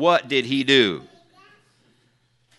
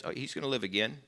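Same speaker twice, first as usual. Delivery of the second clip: gentle reassurance; 12 dB quieter, faster than usual. Retold or imitated. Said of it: "And when Jesus says".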